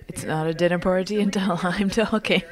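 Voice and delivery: laughing. Real, not acted. Jokes she must talk.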